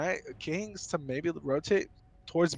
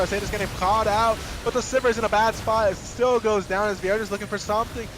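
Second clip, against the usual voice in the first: excited play-by-play; 2 semitones higher than usual. Real, not acted. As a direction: call the teamfight with rising energy. Fight breaks out, live call.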